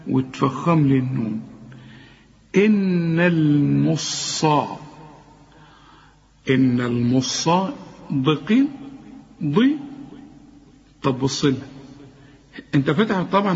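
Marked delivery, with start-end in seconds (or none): 2.6-8.7 "إن" with nasal hum, very slow; nasal ghunna. Shown as a demonstration. Teacher shows the nasal nun of "إن" slowly. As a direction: stretch the nun of "إن" through the nose. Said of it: "إن بخنفة كده".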